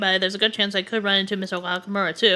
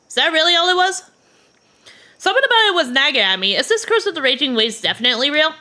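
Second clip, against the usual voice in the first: put-on worried girl; 6 semitones higher than usual. Girl character asks worriedly.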